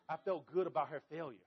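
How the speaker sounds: laughing through a guilty confession; laughing at a rival's failed plant. Real, not acted. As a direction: chuckle while admitting the petty joy. Laughs at Linda's dead plant.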